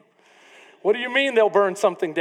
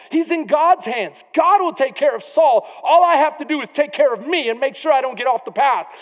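fervent preaching voice; 6 semitones higher, 6 dB louder than usual. Retold or imitated.

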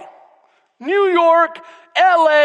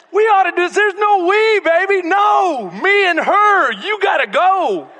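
raised, slowing voice insisting there's no we; emphatic refusal; 6 semitones higher, 4 dB louder than usual. Retold or imitated. Wife shutting down the seatmate's invite, loud and firm. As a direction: shut the invite down hard.

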